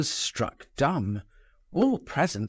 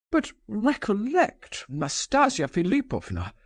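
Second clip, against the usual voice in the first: stammered; 9 semitones higher than usual. A narrator's reading. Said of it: "stammered Totski".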